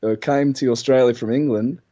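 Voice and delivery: rough attempt at an Australian accent through gritted teeth. Shown as a demonstration. Brit explaining Australians' London origins, imperfect Australian accent. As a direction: grit your teeth and try Australian by way of Cockney.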